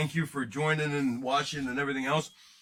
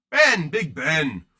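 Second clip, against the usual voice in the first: slow, louder drawn-out "Big Ben" like a stadium call; announcer hype; 6 dB louder, much slower than usual. Pretend. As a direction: stretch "Ben" out like announcing him to a crowd. Hyping a player's nickname.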